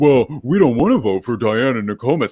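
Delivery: dumbed-down, stupid-sounding voice. Retelling how someone imitated Will, the speaker repeats it, imitating Will sounding dumb. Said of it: "that's like Kaser's impression of Will".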